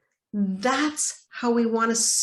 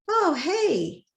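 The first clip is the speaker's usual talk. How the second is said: body's shy reply; 8 semitones higher than usual. Retold or imitated. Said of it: "that body voice that goes".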